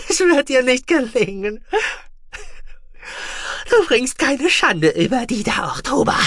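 high, loud unhinged ranting; raving madman. Acted. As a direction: rant like a man gone mad. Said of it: "Er kicherte wie irre".

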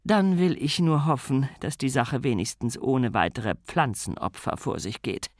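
a weighty sigh of a grand lady; solemn, heavy-handed lady of the house. Acted. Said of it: "sagte gewichtig".

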